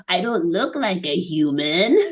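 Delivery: lightly voiced timid alien; a hint of a small worried creature; little alien voice. Jeff worried he won't pass as human, lightly voiced alien. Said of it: "in his little alien voice".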